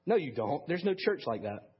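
retold scornful dismissal; almost sneering. Harry answers the preacher about his church, almost sneering. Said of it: "he almost sneered as he answered".

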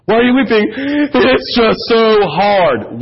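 a hammed-up tearful whine; imitating a forced, self-pitying weep; mock forced weep. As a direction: drag it out like it's all too hard. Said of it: "it's a forced weep".

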